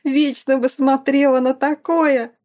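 high, slow words through laughter; giggling mockery; laughing delight. Erika laughing at fallen rival.

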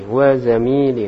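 "zamili" with a lengthened "mi"; long "mi". Shown as a demonstration. Teacher repeats the corrected phrase, "zamili" with long "mi". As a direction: hold the middle vowel of "zamili". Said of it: "Yaminnya panjang".

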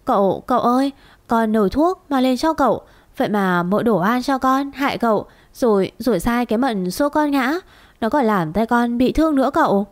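mild mock sobbing to win sympathy; tearful pleading. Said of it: "mếu máo khóc lóc".

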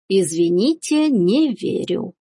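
slow, drawn-out amused disbelief; wry scepticism. Acted. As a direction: draw the words out sceptically. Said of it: "усмехнулась матушка". (насмешливо, с растяжкой)

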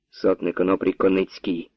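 usual speaking voice

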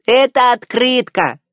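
a small fish shouting "here!"; eager little fish voice. A narrator's reading. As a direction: Flounder handing over the card from the water. Flounder announces.

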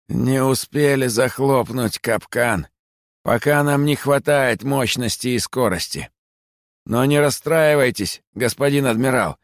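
high, creaky, obsequious creature voice; nasty creaky rat. A narrator's reading. Bat spy reports obsequiously to the admiral, nasty creak. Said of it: "проговорила противным скрипучим голосом".

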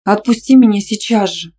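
loud indignant demand; indignant shriek. A narrator's reading. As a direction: shriek at him to let go. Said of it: "возмущённо визгнула". (возмущённый визг)

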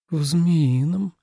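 slow, dreamy reply; thoughtful. A narrator's reading. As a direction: muse over it slowly. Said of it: "задумчиво ответила Суэлань". (задумчиво и очень медленно)

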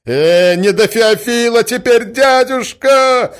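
high, loud protest with a drawn-out last word; exasperated interruption. A narrator's reading. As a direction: cut him off in frustration. Nephew impatiently cuts the prince off. (нетерпеливо, громко перебивая)

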